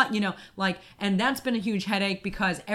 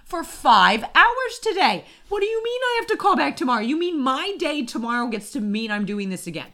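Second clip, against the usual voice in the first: high, loud tirade, as if losing it on a call; retold angry yelling; 7 semitones higher, 5 dB louder than usual. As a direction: imitate screaming at customer service. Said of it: "I screamed at the man".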